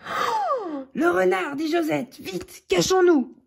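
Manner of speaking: high, panicked little mouse voice; frightened mouse. Acted. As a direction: squeak out the danger, hurry them. Mouse sees the fox coming.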